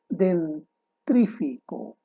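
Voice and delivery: Dentrífico said very slowly, with the "tr" misplaced; forma incorrecta. Shown as a demonstration. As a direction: spell out the error in Dentrífico slowly. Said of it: "lo correcto es dentífrico". (Dentrífico, muy despacio, con el error marcado)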